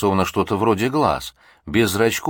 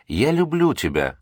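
higher-pitched cry, stress on люблю; shouting; 7 semitones higher than usual. A narrator's reading. Felix finally confesses his love to Lisa, shouting. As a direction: blurt it out with pent-up pain. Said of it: "закричал он".

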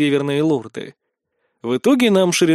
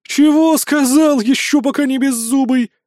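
thundering threat; 11 semitones higher, 5 dB louder than usual. A narrator's reading. Mercenary threatening the lord who mocked her, thundering anger. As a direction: roar it at the big young lord. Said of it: "прогремела".

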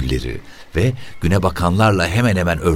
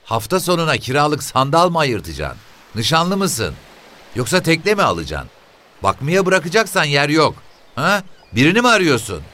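put-on high, brisk old woman's voice; quick, nosy old mother; 12 semitones higher than usual. A narrator's reading. Mother telling the officer where her sons are, high and quick.

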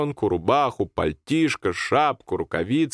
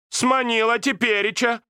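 put-on much higher reproachful old woman; grandmother reproaching. Grandmother reproaches Sanka, much higher. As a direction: needle him with it.

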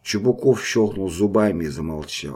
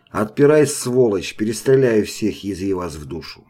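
bang on the gate and yell; angry soldier yelling to be let in; shouted threat. Acted.

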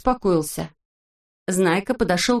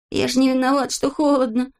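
put-on higher, childlike complaint from a freezing boy; Rasteryaika, shivering; 6 semitones higher than usual. A narrator's reading. Freezing boy answers grumpy Vorchun, higher pleading voice. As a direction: plead that it isn't his fault. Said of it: "сказал Растерейка".

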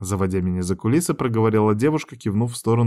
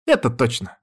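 plain reading voice

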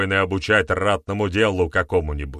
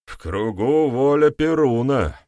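louder, higher slow cry; shouted; 7 semitones higher, 5 dB louder than usual. A narrator's reading. Red Leaf calling out to the elders, loud. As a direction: proclaim it to the crowd. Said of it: "выкрикнул Красный Лист".

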